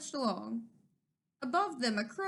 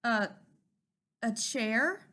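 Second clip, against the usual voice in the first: stammered; slower than usual. Acted. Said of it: "Turkey stammered".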